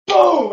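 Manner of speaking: loud, high exploding "boom"; big shouted sound effect; imitated impact boom. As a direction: blast it out as the moment of impact. Imitates ball striking his hand.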